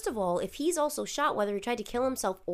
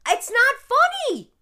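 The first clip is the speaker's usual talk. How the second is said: laughing; 13 dB louder than usual. Real, not acted. Laughing while protesting.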